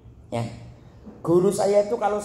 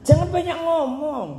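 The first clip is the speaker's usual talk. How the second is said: mock stern advice; 12 semitones higher, 5 dB louder than usual. Stern advice voiced high.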